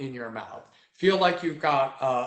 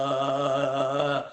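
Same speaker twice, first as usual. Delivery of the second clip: imitating baby. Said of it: "she liked hearing".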